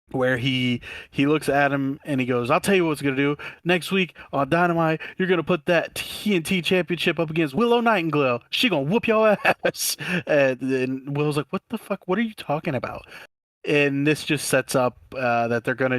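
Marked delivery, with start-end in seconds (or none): 2.5-9.9 mock Stokely. Stokely's line retold. 11.5-13.1 mock disbelief. Willow's reaction retold.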